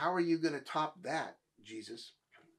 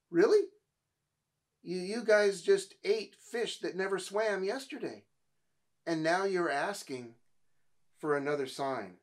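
a sharp, disbelieving "Really?" pitched up and loud, then settling; incredulous; 3 semitones higher, 3 dB louder than usual. Retold or imitated. Preacher mocking the crowd asking Jesus for another sign, incredulous. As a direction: scoff at the crowd's demand for more. Pastor voices his incredulous reaction.

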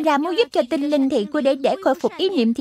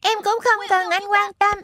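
put-on higher, resentful kid's complaint; boy telling mum she never cares, higher and sulky; sulky child; 5 semitones higher than usual. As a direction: throw the hurt back at mum. Grumpy boy snaps at brother.

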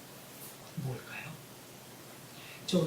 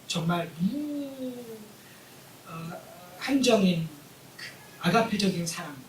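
usual speaking voice

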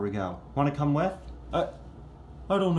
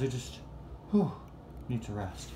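drained, barely pushing the words out; exhausted; 3 semitones lower, 5 dB quieter than usual. Acted. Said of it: "I'm really exhausted".

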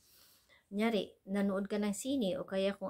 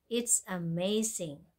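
slow model phrase; slower than usual. Shown as a demonstration. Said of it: "ito pa".

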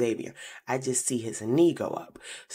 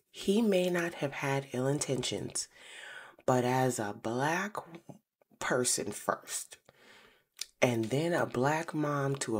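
hushed whisper; 3 dB quieter, slower than usual. Real, not acted. Serious confession to the audience.

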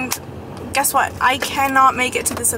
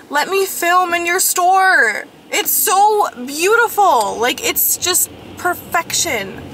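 slow, drawn-out pleading, pitched up; imagined plea; 5 semitones higher, slower than usual. Pretend. Vlogger rehearsing a plea to store owners, hammed-up begging. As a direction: beg with hammed-up insistence. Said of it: "I'm gonna be like".

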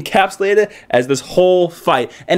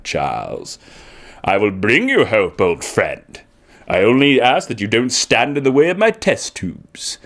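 imitating Magneto; 7 semitones lower, slower than usual. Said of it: "he's like".

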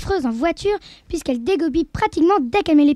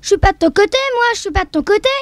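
shouting back; 4 semitones higher, 5 dB louder, faster than usual. Acted.

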